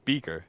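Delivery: "Beaker" with a clear final R; R sounded. Shown as a demonstration. Caster demonstrating to co-caster, "Beaker" with the R. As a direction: pronounce the R ending "Beaker". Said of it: "I don't hear an R at the end".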